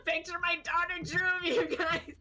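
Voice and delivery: high, mock-tearful gush with a laugh; starstruck gushing. Fan showing wrestler daughter's drawing, mock starstruck gushing.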